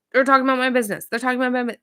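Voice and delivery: high, loud indignant complaint; mock defensive whine. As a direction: protest like a self-absorbed boss. Kyle defensive, repeating his complaint.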